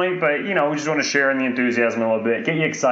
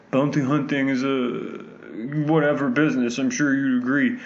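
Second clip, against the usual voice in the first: Werner Herzog line. Retold or imitated. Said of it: "this famous line that Werner Herzog keeps repeating".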